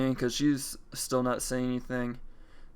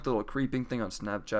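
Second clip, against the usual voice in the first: ordinary talk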